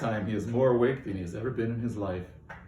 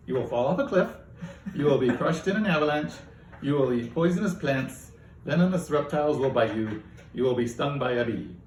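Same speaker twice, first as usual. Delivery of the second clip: louder, higher cheerful doom list; lightly voiced AI, enjoying itself; gleeful AI; 4 semitones higher, 3 dB louder than usual. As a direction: relish every grim prediction. AI continues death list.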